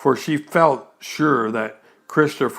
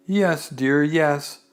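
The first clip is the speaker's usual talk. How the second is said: soothingly; slower than usual. Acted. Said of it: "said Kanga soothingly".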